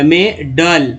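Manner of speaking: मेडल split into two slow syllables; teacher's careful मेडल; vowel shown. Shown as a demonstration. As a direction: sound out मेडल in parts, stressing its vowel. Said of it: "मिडल में ए को आ बोला गया".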